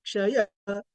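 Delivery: "Chayaha" with the ya lifted; upward intonation on ya. Shown as a demonstration. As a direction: raise "ya" in "Chayaha". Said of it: "which is different from".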